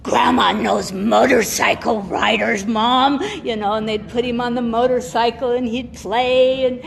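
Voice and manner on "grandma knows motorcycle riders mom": put-on child's voice. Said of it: "he'd go".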